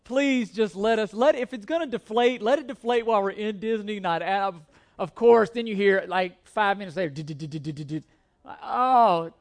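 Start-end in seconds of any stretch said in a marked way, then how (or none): 0.0-4.5 half-joking plea to the tire; pleading prayer. Retold or imitated. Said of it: "I'm like". 7.1-8.0 soft rhythmic did-did-did of a flapping tire; low muttered tire flapping noise; flat tire thump. Retold or imitated.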